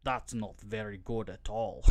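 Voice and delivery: lightly put-on Swedish accent; a hint of mock-Swedish scientist; attempted Swedish accent. Movie scientist replying to bad news, lightly faked Swedish accent. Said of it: "I'll be doing accents throughout this".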